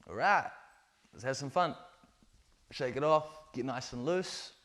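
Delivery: bright, loud hype-up; energetic pep call. Real, not acted. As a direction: fire the group up. Coach rallies class to loosen up.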